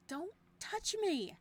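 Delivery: high, loud breathy scream. Acted. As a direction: scream it, pulling away. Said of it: "I scream with a breathy voice".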